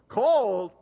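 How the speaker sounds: a sudden loud, punchy "Cold?" to the congregation; emphatic exclaim. Real, not acted. Pastor jolting the congregation about the cold, loud exclaim. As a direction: throw the word out like a shiver.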